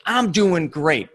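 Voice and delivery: slow, mildly upbeat imitation of the broker; a touch of forced cheer, drawn out; excited, upbeat. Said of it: "in a very excited, upbeat tone".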